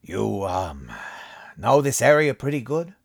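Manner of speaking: friendly, smiling tone; smile in his voice. A narrator's reading. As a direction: put a smile in your voice. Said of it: "putting a smile in his voice".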